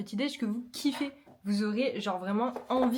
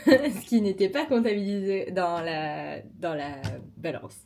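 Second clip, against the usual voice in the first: laughing; 2 semitones lower, 4 dB louder, slower than usual. Real, not acted. Laughs at her own mistake.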